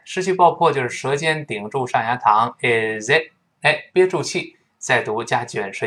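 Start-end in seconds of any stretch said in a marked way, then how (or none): 2.6-3.3 "is it" with the final t held back, unexploded; unreleased T. Shown as a demonstration. Teacher showing learners lost plosion, final t unreleased. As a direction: stop the t in "it" on the tongue tip. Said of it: "失去爆破了".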